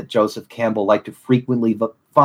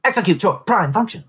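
robot voice; 6 semitones higher than usual. Pretend. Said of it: "I thought you were a robot".

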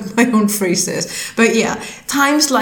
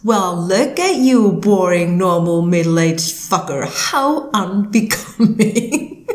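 a hint of a mocking inner critic; sarcastic voice. Inner voice mocking her for being boring, light sarcasm. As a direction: sneer at yourself lightly. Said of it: "This sarcastic voice talking to you".

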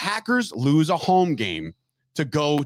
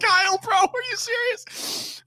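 1 incredulous; slower than usual. Real, not acted. Incredulous reaction.

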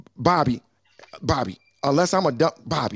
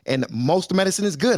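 ordinary talk

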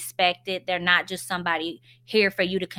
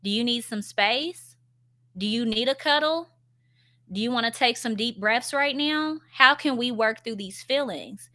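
gentle validating. Shown as a demonstration. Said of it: "Voice the feeling".

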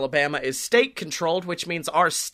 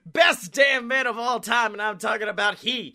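ringmaster; 6 semitones higher than usual. Pretend. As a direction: hype up the crowd like a circus host. Show intro announcer over music.

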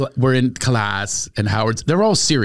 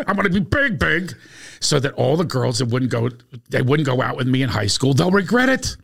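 eager, rising mock pitch of a wannabe; imitating his friend; 4 dB louder than usual. Friend introduces himself to the class, hammed-up eager. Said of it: "He goes".

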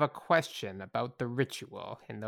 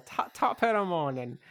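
stumbling Irish brogue; retry the Irish lilt; mock Irish accent; 4 semitones higher than usual. Retrying the sign-off in a mock Irish accent. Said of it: "your perfect, uh, uh, Irish accent".

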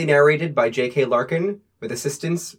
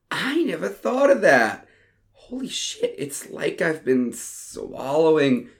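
higher, giddy; stoned amazement; 3 semitones higher than usual. Acted. Ronnie realizing the bowl joke, giddy and amazed. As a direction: marvel at the discovery. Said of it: "laughing so hard".

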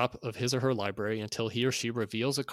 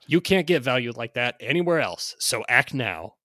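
carnival barker; 4 dB louder than usual. Acted. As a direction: hype it like a fairground barker. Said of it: "read this in sort of a carnival barker".

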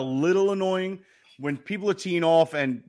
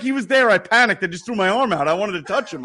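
higher, louder, mock-panicked blurting; retold flustered excuse; 5 semitones higher, 4 dB louder than usual. Brother explains his botched high five to the speaker, mock-flustered. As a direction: imitate someone excitedly defending himself.

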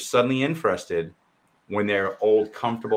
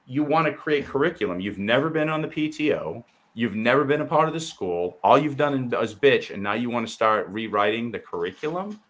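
higher, heated scolding; higher-pitched angry rant; indignant rant; 4 semitones higher than usual. Real, not acted. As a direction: lay into them hard. Ranting at school-board groups.

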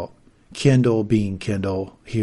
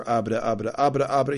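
stammering babble. Retold or imitated. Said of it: "You gave me a Tom answer".

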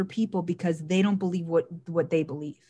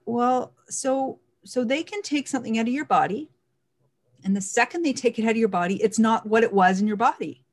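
incredulous realization; 4 semitones higher than usual. Retold or imitated. Mocking an imagined realization.

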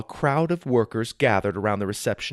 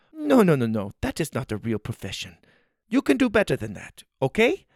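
high, stern finger-wagging voice; scolding woman; 4 semitones higher than usual. A narrator's reading. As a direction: scold him like a strict host.

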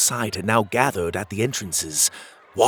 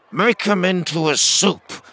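shouting porcupine; 9 semitones higher, 4 dB louder than usual. Acted. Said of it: "shouted a porcupine".

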